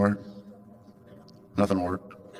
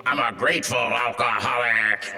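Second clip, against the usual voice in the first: put-on gravelly old-timer; slower than usual. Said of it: "He had the deepest, graveliest voice".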